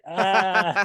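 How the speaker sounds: high, loud mock "ah"; hammed-up zombie-scene "ah"; imitated "Ah". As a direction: send up a corny horror-film cry. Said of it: "goes like".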